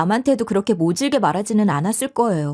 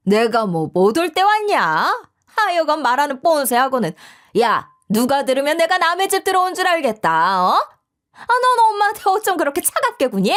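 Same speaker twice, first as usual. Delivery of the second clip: indignant mother-in-law; 4 semitones higher than usual. Acted. (발끈하며 서운해하는 시어머니)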